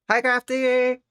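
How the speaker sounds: squeaky pet-talk hello; high cutesy greeting. Real, not acted.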